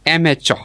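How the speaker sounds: "amateur" with the first syllable stressed. Shown as a demonstration. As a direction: model "amateur", weight on am. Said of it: "the stress falls on the first syllable".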